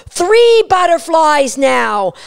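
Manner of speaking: a dog losing it over three butterflies; excited dog voice. Pretend.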